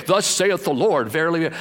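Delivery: mock pompous prophecy. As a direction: send up a showy prophet. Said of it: "the pomp and circumstances".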